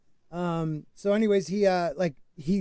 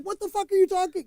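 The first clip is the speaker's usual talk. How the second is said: mock incredulous; 12 semitones higher than usual. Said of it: "And I was like".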